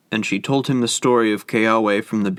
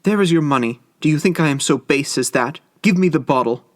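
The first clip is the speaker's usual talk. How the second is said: urgent demand; 3 semitones higher, faster than usual. Acted. Desperate wife demanding.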